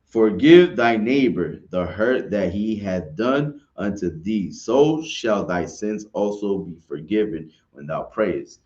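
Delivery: put-on slow, deliberate reading of an old verse; measured King James recitation; scripture reading. Shown as a demonstration. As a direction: read it out like holy writ, unhurried. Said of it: "Verse two says".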